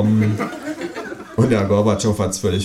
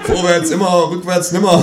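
raised, higher slogan call; proclaimed higher; 9 semitones higher, 4 dB louder than usual. A narrator's reading. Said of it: "rufe ich".

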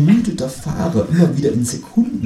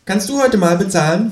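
kangaroo voice; 11 semitones higher, 4 dB louder than usual. Acted. Kangaroo speaks in a story reading.

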